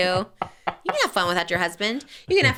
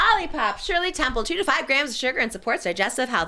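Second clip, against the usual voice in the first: higher-pitched sponsor read; 4 semitones higher than usual. Shown as a demonstration. Host shows how they do ad reads, higher ad-read voice. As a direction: pitch it up like a podcast ad. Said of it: "when I do ad reads, I'm like".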